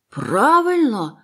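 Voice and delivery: high, drawn out, loud; excited agreement. A narrator's reading. Silver agrees with the boy, excited and drawn out. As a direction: seize on it, stirred up. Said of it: "вигукнув Сільвер, на цей раз дуже схвильований".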